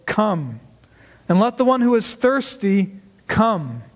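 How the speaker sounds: measured verse reading with deliberate pauses; scripture reading. Acted. Preacher reading the verse to the congregation, measured and deliberate. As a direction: read it out phrase by phrase, settling on each ending.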